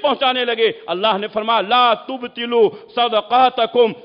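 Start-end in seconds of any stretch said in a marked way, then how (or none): 1.6-3.9 slow, emphatic Arabic recitation; Quran quotation. Real, not acted. Preacher quoting God's warning on charity, slow recitation. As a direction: recite each Arabic word deliberately.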